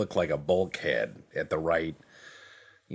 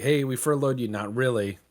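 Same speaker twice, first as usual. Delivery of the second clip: gleeful announcement; 5 semitones higher, 5 dB louder than usual. Retold or imitated. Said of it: "We're like".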